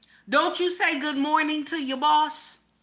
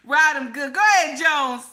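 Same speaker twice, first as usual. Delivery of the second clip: mock loud praise; 6 dB louder than usual. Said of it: "That's what he said".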